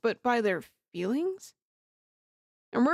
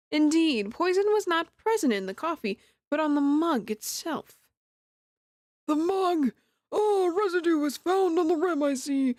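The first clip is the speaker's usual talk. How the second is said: put-on old judge voice; 5 semitones higher than usual. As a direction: play a stately old judge. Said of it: "I'm starting to get my old judge voice back".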